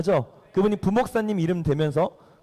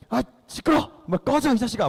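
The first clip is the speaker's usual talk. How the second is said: higher-pitched hammed-up royal anger; mock angry outburst; 5 semitones higher than usual. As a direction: act out an irritated king driving someone away. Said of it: "막 이렇게 한 거야". (짜증 난 왕을 흉내 낸 호통)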